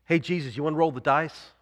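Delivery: light needling tempter; mild sly devil; Satan daring. Retold or imitated. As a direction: tease him into the gamble. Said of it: "he says this".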